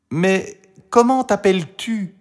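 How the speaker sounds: put-on high, curious girl's voice; Marie. A narrator's reading. Marie asks the dragon's name, high and curious. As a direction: ask keenly in a child's voice.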